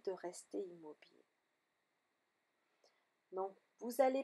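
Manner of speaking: calm yoga nidra guidance with long pauses; guided meditation. Real, not acted. Yoga teacher guiding students lying in shavasana, calm meditation voice. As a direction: settle them gently into stillness, phrase by phrase.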